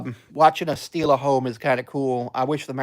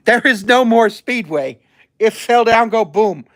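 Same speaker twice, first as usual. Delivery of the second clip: high and louder, barely holding a laugh; giddy amusement; 8 semitones higher, 5 dB louder than usual. Real, not acted. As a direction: tell it through the giggles. Laughing at crash on screen.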